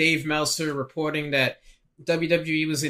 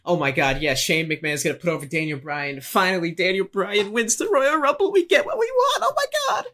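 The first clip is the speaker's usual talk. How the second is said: building from plain to a squealing shriek much higher; freaking out; 3 semitones higher than usual. Retold or imitated. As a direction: fan joy rising into a falsetto squeal. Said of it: "everybody's freaking out, like".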